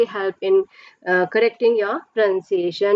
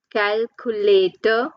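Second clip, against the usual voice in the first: "Calculator" slowly in four beats; syllable by syllable; slower than usual. Shown as a demonstration. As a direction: stretch "Calculator" so each syllable shows. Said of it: "four syllables".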